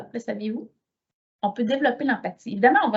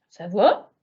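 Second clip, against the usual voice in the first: unvoiced little whisper; hushed reply; 2 semitones lower, 3 dB louder than usual. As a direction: breathe the question. Cashier's small reply.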